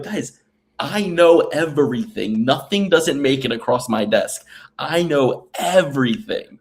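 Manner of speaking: insistent know-it-all stress on "everything"; emphatic boast. Retold or imitated. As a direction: lay down the law, leaning on "everything". Boasting retort to doubters.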